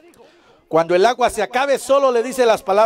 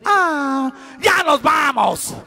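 put-on kids' groan; 4 semitones higher, much slower than usual. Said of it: "Y todos dicen".

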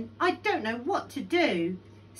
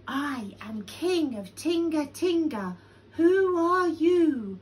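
raised, higher proclamation; calling out; 6 semitones higher, 6 dB louder than usual. A narrator's reading. Lion announcing himself to the cave, calling out. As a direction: call it into the cave.

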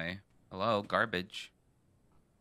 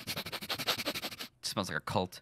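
slow, soft unvoiced whisper; whispered aside; 5 semitones lower, 5 dB quieter, much slower than usual. Real, not acted. Suspicious of the priest, whispering aside. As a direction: breathe it out secretly.

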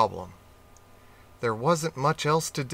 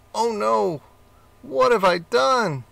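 much higher and louder gasp; panicked realisation; horrified rat; 8 semitones higher, 5 dB louder than usual. Acted.

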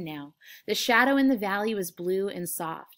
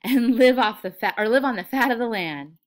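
high, very loud glee; exuberant, childlike outburst; giggly happiness; 3 semitones higher, 11 dB louder than usual. A narrator's reading. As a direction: cry out overjoyed. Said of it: "Lenny giggled with happiness".

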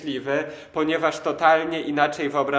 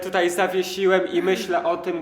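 excited; 4 semitones higher, 6 dB louder than usual. Real, not acted. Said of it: "Patryk, jak się cieszy".

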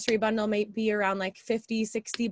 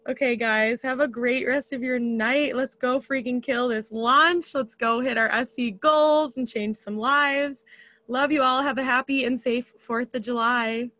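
excited; 2 semitones higher, 4 dB louder than usual. Real, not acted. Hype sign-off to team.

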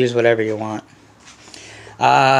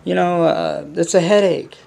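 mocking whining.

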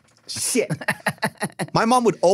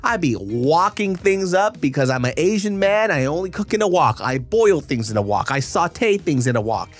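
ad read. Acted. Ad read over music.

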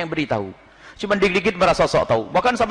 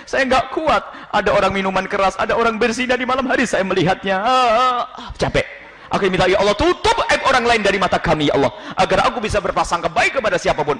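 weeping prayer; 3 semitones higher than usual. Acted. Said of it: "di belakang sana menangis".

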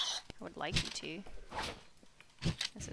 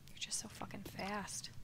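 whispering; 6 dB quieter than usual. Real, not acted. Whispered complaint.

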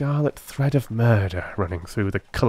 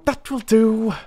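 higher, firm cut-off; sharp cry; 14 semitones higher, 4 dB louder, slower than usual. A narrator's reading. Holmes cuts off the constable's description sharply. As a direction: stop him short. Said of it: "cried Holmes".

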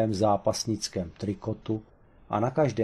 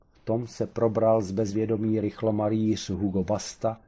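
usual speaking voice

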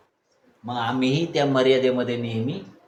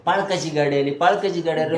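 calling out like excited believers; mock shouting crowd; 4 semitones higher than usual. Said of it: "चाललेच बोंबलत विश्वासणारे".

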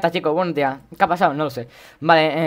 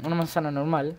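"manzana" with an s sound, Latin American accent; Latin American seseo; 5 dB quieter than usual. Shown as a demonstration. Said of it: "porque me gusta el acento".

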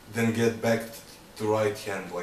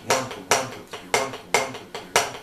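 "one" punched higher in a rhythmic count; stress on one; 3 semitones higher, 4 dB louder, much faster than usual. Shown as a demonstration. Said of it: "Accenting one".

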